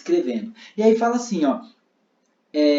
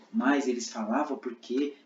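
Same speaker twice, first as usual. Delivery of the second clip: quiet, lower narration; narrator voice; 4 semitones lower, 4 dB quieter than usual. Shown as a demonstration. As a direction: narrate gently. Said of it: "Então eu vou fazer". (narração mais baixa)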